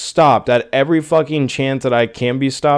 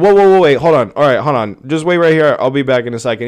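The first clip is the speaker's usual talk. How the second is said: mock salesclerk; 4 dB louder, faster than usual. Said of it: "do you think he's gonna be like".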